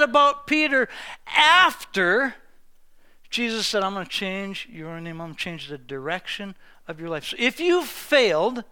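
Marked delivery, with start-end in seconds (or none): 3.8-7.2 much lower, much softer promise; hushed earnest vow; soft solemn promise. Retold or imitated. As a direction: speak it low and tender. Jesus voiced renaming Peter.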